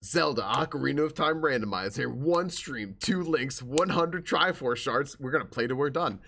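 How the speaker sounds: big hyped-up announcer voice. Acted. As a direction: announce it like a fighting game intro. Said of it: "like, announcer voice".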